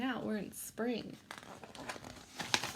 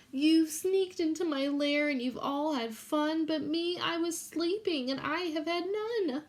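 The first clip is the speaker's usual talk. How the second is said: whiny bear; 4 semitones higher, 3 dB louder than usual. Acted. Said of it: "he whimpers and he moans".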